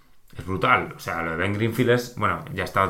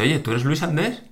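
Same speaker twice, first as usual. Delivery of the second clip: imitating a stranger; 6 semitones higher than usual. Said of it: "me dice".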